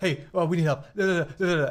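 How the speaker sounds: frantic, panicky, urgent put-on alarm. Voicing characters who fake panic to trick the guards: acting panicked. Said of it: "just panicking, like".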